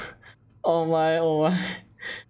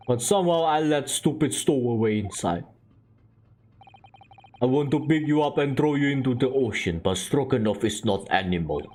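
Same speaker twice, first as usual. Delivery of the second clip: put-on lower, grumbling Russian accent; Russian-accented sailor, lightly gruff; 5 semitones lower than usual. Sailor warning the stowaway, lower Russian accent. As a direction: threaten her but hold back, Russian accent.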